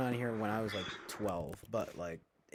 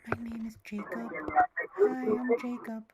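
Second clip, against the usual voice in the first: a higher, put-on voice; lightly voiced new character; 10 semitones higher, 4 dB louder than usual. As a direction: play a squeaky new guy introducing himself. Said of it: "come up with different, like, characters".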